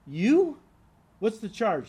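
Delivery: incredulous. Acted. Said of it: "He can't believe it".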